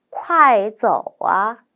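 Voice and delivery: very slow model reading. Shown as a demonstration. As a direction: read it word by word. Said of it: "첫 번째는 천천히". (천천히 또박또박)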